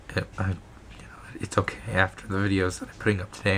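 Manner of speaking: hoarse whisper, voice almost gone; lost voice whisper. Real, not acted. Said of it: "you can obviously hear it".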